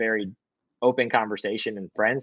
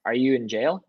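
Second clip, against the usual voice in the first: dad cutting in; 3 semitones higher than usual. Retold or imitated. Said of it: "he goes".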